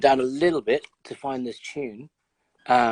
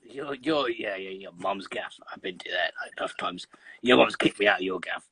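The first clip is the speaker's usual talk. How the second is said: put-on pervy old man voice; 7 semitones lower, 5 dB quieter than usual. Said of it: "why are you doing this pervy old man voice".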